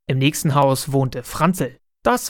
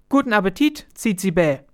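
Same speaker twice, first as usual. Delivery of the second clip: bright call, much higher start; cheerful call; 4 semitones higher than usual. Acted. Boy calls to bird at windowsill, cheerful. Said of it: "und rief".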